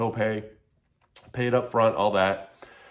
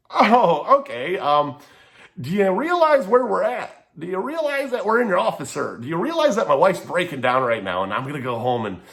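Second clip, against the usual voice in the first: incredulous anger; 5 semitones higher than usual. Retold or imitated. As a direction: let it boil over in disbelief at the doctor. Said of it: "I'm just building up with fumes".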